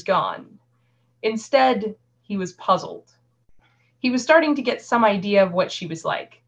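measured audiobook-style reading; story narration. A narrator's reading. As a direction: read the tale aloud, pausing between sentences. Reads a novel excerpt aloud.

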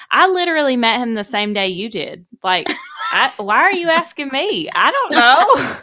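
retold exasperation, building to a loud protest; exasperated retort. Retold exasperated answer to question.

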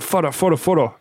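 mock insistent photo request; pestering fan. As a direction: pester someone for a photo, quick repeats. Mimics a pestering photo seeker.

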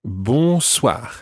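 bonsoir, nasal bon, throat R; French bonsoir. Shown as a demonstration. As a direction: model bonsoir for repeating. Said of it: "a guttural R at the end".

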